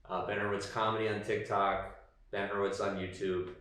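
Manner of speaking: low, soft tired voice; tired outro. Real, not acted. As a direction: wrap up wearily, half-mumbling. Recorded outro, quieter and low.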